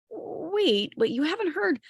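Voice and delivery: high, hurried wait, wait; urgent call to stop. Acted. King Arthur urgently stops Gawain, high and hurried. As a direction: stop him before he agrees.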